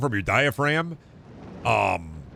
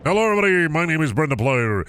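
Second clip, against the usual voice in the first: louder, higher hyped YouTuber intro; old YouTube-intro energy, louder and higher; 6 semitones higher, 5 dB louder than usual. Shown as a demonstration. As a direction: greet the viewers like an over-the-top channel host. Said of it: "that's a performance voice".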